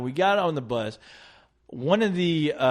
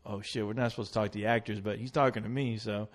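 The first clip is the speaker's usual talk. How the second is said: nervous hushed aside; 5 semitones lower, 9 dB quieter than usual. Retold or imitated. His own nervous inner thought.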